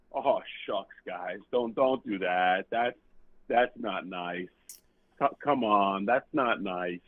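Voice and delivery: slow, timid, embarrassed golfer; meek shy guy. Retold or imitated. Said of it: "this guy's like".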